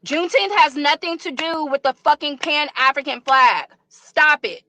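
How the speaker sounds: fed up and telling them off; angry outburst. Real, not acted. Woman rejecting the Pan-African flag, angry.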